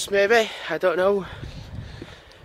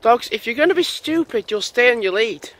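scolding dogs; 4 semitones higher, 4 dB louder than usual. Real, not acted.

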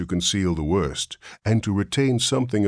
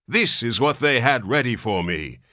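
quavering; 7 semitones higher, 4 dB louder than usual. A narrator's reading. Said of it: "he quavered".

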